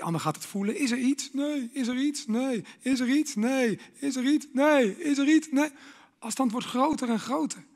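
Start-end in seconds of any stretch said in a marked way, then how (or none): 0.8-5.7 couple's exchange. Acted. Preacher acting a partner asking and a cold no. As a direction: build the nagging back-and-forth. Acted couple dialogue, growing.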